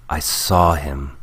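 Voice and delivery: slow, firm insistence on having seen him; insistent. A narrator's reading. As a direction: insist on "saw", drawing it out. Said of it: "Luke insisted".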